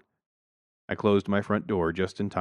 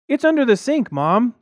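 put-on very high, loud kid voice; son's announcement; 9 dB louder than usual. A narrator's reading. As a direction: announce it to Mom like a tattling child. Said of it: "James announced".

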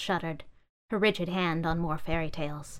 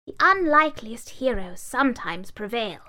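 pondering book; 4 semitones higher than usual. Acted. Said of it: "pondered within herself".

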